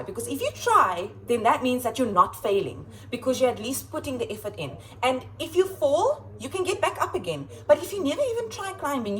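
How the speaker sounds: rallying a class; teacher's pep talk. Retold or imitated. Teacher urging kids to keep trying, animated pep talk. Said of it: "And I say to them".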